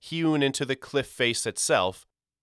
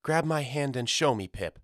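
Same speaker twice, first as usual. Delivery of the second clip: gentle mother; 5 semitones higher than usual. Acted. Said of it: "said Mama".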